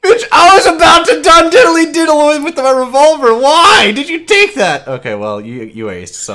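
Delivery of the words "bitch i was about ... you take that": raised, higher-pitched protest; indignant outburst. Real, not acted. Gamer whose revolver kill got taken, indignant outburst. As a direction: complain loudly in disbelief.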